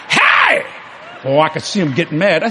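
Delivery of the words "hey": sudden very high "hey"; mock startled squeal. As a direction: imitate a wife's high-pitched yelp. Acting wife being touched.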